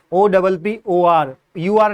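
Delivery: letters spaced out slowly for students to copy; teacher spelling out letters for students to repeat; slow spelling dictation. Shown as a demonstration. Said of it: "जैसे मैं बोल रहा हूँ ऐसे आप भी".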